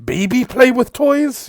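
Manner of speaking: lightly voiced small creature, broken English; a hint of a squat beast delivering a message; Vorlo's voice. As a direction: GM voicing the creature Vorlo, mild and earnest. Vorlo peering inside wall.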